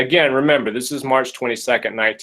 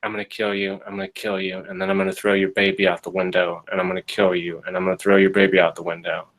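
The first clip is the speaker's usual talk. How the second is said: monotonic threat; 5 semitones lower, faster than usual. Retold or imitated. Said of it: "telling her in a kind of a monotonic voice".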